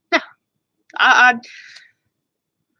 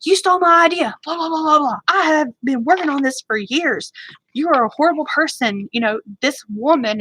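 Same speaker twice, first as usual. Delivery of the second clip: entitled little brat; 4 semitones higher than usual. Retold or imitated. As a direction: sneer it out like a spoiled kid. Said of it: "all like an entitled little brat saying".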